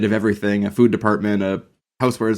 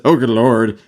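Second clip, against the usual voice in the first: quoting Kelsey Grammer; 5 dB louder, slower than usual. Retold or imitated. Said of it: "he says".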